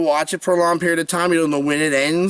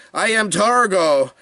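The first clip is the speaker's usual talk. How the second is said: imitating Targo; 2 semitones higher, slower than usual. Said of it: "he goes".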